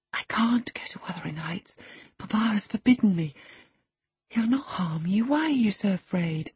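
put-on high, hushed girlish appeal; whispering. A narrator's reading. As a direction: plead gently, half-whispered. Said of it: "whispered Catherine".

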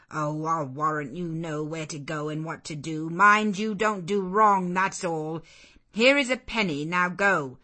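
loud, sharp scolding of a vagrant; stern refusal. Acted. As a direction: bark it at the stranger on the step. Servant dismissing her.

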